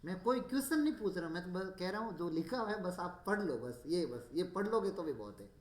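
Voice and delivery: teacher raising his voice to coax shy students. Real, not acted. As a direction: push the students to just read. Teacher urging class loudly.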